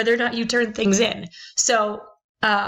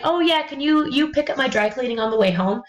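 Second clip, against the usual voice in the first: entitled tone; 3 semitones higher than usual. Retold or imitated. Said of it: "in a tone that sounds a little bit entitled".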